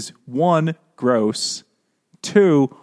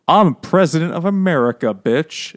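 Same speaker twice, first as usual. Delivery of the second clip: mock character voice; 3 semitones higher, 5 dB louder than usual. Mocking book character voices.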